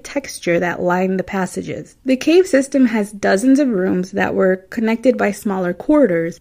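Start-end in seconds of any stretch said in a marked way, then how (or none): 5.7-6.4 slurred Midwestern "corridors", middle syllable swallowed; Midwestern accent. Real, not acted. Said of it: "That's my Midwestern accent coming through".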